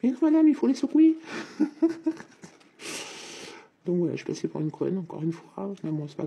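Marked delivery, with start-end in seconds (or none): 0.0-1.2 high, loud mock shop clerk, laughing through it; laughing impression of a condescending clerk; imitating the shopkeeper. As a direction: send up the patronising salesman. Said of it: "Le monsieur, il m'a dit".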